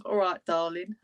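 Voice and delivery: lightly put-on London accent; a touch of cheeky London. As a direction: toss it in with a London twang. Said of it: "I'll say a London accent".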